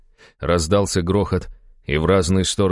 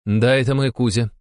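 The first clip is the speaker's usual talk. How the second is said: higher-pitched, composed countess; calm, reassuring; 6 semitones higher than usual. A narrator's reading. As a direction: answer calmly to settle a shaken man. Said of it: "спокойно проговорила графиня". (спокойно, успокаивающе)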